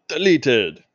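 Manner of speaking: Mexican wrestler voice. Pretend. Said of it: "in your very best Mexican wrestler voice".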